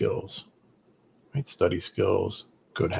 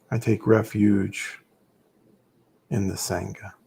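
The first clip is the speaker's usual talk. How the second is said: refuge recitation. Acted. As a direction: recite the vow solemnly, phrase by phrase. Recites the Three Jewels refuge.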